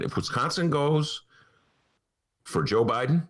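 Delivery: Barack Obama impression. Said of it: "that was my Barack Obama imitation".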